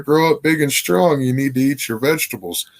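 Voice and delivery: imitating mom. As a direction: preach it like a little mom. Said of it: "My mom ... told me the lie".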